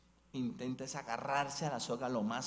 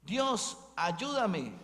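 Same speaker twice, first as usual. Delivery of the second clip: crying out high and loud to God; pleading shout for help, pitched high; desperate plea; 7 semitones higher, 9 dB louder, much slower than usual. Acted. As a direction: call up into the dark, begging. Climber begs God in the dark.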